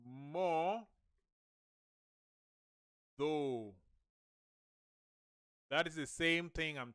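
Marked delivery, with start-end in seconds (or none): 0.1-3.7 "More. Though." drawn apart with a long pause; alternative sounding-out. Shown as a demonstration. Teacher showing another way to say modo, split syllables. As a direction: say "More. Though." as two separate English words. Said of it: "can also be done like this".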